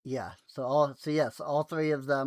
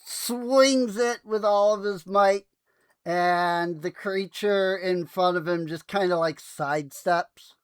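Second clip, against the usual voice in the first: game master narration; 5 semitones higher, 6 dB louder than usual. Acted. Game master describes Aurelius's axe swing, dramatic narration.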